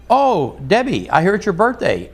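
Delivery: lightly voiced smooth operator; sly greeting. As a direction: ham up the smooth come-on. Rick greeting Debbie.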